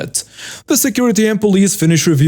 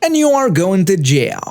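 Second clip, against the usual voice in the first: high, pushy voice of an accusing Karen; 5 semitones higher than usual. Retold or imitated. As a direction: whine the threats up high like an entitled shopper.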